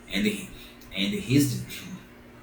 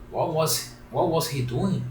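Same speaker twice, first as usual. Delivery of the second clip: higher, eager; eager question; 6 semitones higher than usual. Acted. Pinocchio urgently asks the pigeon about papa.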